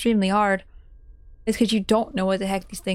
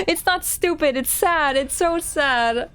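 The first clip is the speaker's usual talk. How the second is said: teary and upset; 4 semitones higher, slower than usual. Real, not acted. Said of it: "I'm crying".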